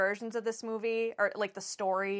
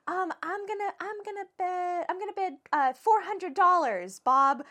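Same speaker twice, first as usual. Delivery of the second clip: obnoxious contestant; 9 semitones higher than usual. Retold or imitated. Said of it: "she would be like".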